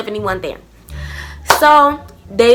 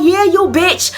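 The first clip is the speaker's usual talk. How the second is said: heated insult; 5 semitones higher, slower than usual. Retold or imitated. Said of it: "I was just going the fuck off".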